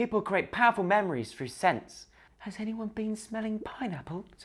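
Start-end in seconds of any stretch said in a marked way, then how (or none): 2.4-4.2 very soft, hushed, almost murmured. Recapping Love Island, quoting an islander's question, really quietly. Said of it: "really quietly".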